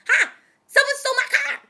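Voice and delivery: high, loud frantic report to a dispatcher; panicked outcry. Retold or imitated. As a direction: cry out in alarm, reenacting an emergency call. Retold panicked call to emergency dispatcher.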